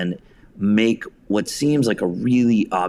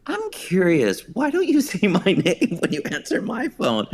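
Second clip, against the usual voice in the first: high, laughing mock-innocent question; mock-polite question; 12 semitones higher than usual. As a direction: ask sweetly through a laugh. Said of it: "And I was like".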